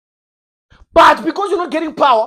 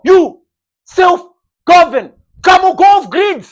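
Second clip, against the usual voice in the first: emphatic God; 4 semitones higher, 9 dB louder, slower than usual. Acted. God urges the believer.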